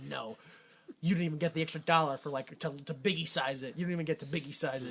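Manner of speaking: quick, hushed, low refusal; tight-fisted manager. Retold or imitated. Manager refusing the band extra money, quick and hushed. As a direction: imitate a manager muttering a curt no.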